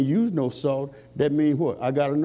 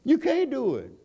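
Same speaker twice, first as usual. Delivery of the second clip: climbing higher preacher's cry; fervent preaching; 5 semitones higher than usual. Acted. Preacher challenging the congregation about lost savor, fervent.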